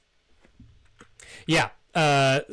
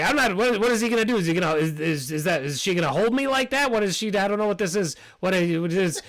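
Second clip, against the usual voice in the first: high, eager squeaky bat insisting on friendship; squeaky fawning bat; 7 semitones higher, faster than usual. Acted. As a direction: pitch way up and gush loyalty. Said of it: "And he's like".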